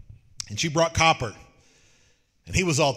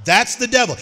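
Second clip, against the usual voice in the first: higher and louder, driving it home; emphatic preacher's declaration; 6 semitones higher, 7 dB louder than usual. Real, not acted. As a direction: hit "That's the devil" hard. Repeats line, second time punched.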